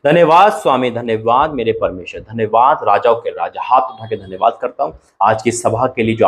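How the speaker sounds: an earnest spoken prayer. Acted. Pastor prays for the three hundred names, earnest prayer voice. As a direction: pray aloud over the congregation.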